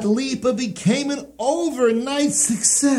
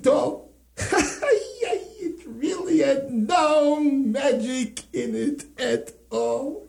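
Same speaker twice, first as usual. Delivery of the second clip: laughing confession; 4 semitones higher, 3 dB quieter, slower than usual. Acted.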